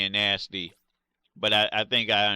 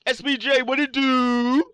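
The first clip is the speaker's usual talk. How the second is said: high put-on voice; 12 semitones higher, 7 dB louder than usual. Greets a viewer in a voice.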